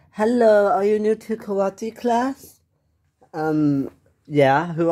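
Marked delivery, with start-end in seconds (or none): 0.1-2.6 karate instructor. Acted. Instructor to new family, formal greeting. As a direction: greet newcomers with crisp formality. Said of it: "I am the karate instructor".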